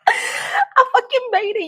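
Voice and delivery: high, loud, slow exclamation; overcome with glee. Real, not acted. Streamer celebrating an ego boost, wailing triumph. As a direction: wail it in happy triumph.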